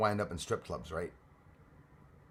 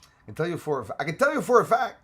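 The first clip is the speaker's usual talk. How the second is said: high, loud play-by-play call; sportscaster voice; 5 semitones higher, 6 dB louder, faster than usual. Shown as a demonstration. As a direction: announce it like a hyped sportscaster. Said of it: "I always take a sportscaster's voice".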